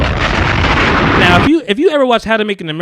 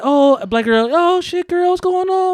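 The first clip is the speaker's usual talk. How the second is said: excited greeting; 13 semitones higher than usual. Retold or imitated. Girls greeting each other.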